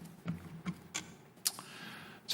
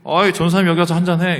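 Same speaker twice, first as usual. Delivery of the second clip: loud, high, brash call to come drink; casual drinking deacon; 7 semitones higher, 7 dB louder than usual. Retold or imitated. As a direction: imitate the deacon calling him over for a drink. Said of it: "그러더니 저한테 갑자기". (술자리로 부르는 거침없는 큰 목소리)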